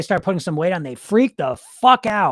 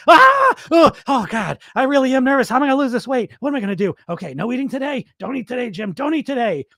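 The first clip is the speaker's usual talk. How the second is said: hammed-up panicked yelp, much higher and louder at first; mock panic; 7 semitones higher, 4 dB louder than usual. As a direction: play the frantic dieter losing it. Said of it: "be like".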